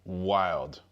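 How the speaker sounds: a loud, stunned exclamation; big astonished reaction; loud wild. Real, not acted. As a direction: blurt it out in disbelief. Reacting to news of strikes.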